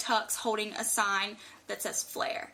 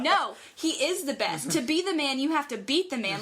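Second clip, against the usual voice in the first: retold fervent correction, pitched up; emphatic fan insistence; 3 semitones higher than usual. Fan correcting the driver about her idol, retold emphatic insistence.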